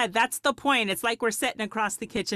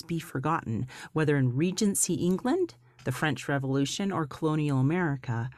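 polished podcast host intro; warm, inviting show-opening read; beautiful voice. Acted. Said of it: "I could listen to your voice all day long".

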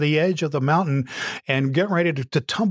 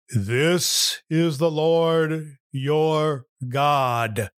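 booming God voice; 3 semitones higher, much slower than usual. Acted. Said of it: "this booming voice came out of the void".

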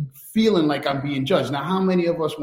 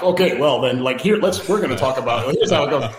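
lightly put-on work-call voice; a hint of code-switched professional talk; white voice. Shown as a demonstration. Showing the brother's "white voice" on a work call, lightly put on. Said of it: "your white voice on".

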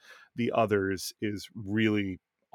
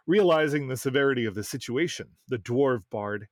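reading aloud. Acted. Continues reading the story.

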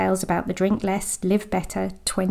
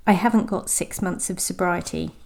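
a bit sad. Shown as a demonstration. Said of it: "Sounds a bit sad".

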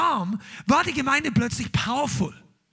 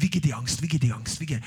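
mock German fussing; 8 semitones lower, faster than usual. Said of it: "Typisch deutsches Verhalten".

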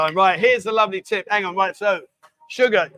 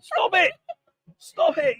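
laughing protest; 9 semitones higher, slower than usual. Real, not acted. Protests while drink is spilled.

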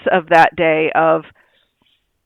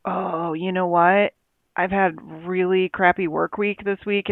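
talking yourself through a bad week, softly; quiet self-talk; 6 dB quieter than usual. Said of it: "look at their day and go".

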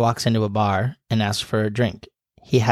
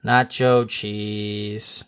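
drawn-out punchline; 4 semitones lower, much slower than usual. Acted. Punchline repeated, groaning.

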